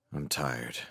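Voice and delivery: low, soft and weary; quiet. Acted. Felix quietly tells Kent he's tired, soft and low. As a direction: say it softly, worn out. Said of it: "Felix said quietly".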